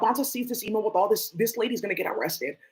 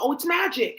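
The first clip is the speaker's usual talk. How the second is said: mocking; 6 semitones higher than usual. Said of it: "Talk about".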